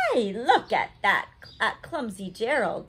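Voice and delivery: mocking jeer at a clumsy giraffe; sneering. Jungle animals taunting Gerald, sneering and loud. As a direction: taunt him like a playground bully. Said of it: "the animals all sneered".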